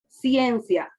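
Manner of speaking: ciencia said as one syllable glide, cien-cia; split syllables. Shown as a demonstration. Teacher modelling ciencia for the class, syllables joined. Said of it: "Ciencia, ciencia".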